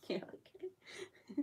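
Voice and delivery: mock going along with it; sarcastic agreement. Retelling the call to the company, slow mock-agreeable. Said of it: "I'm like".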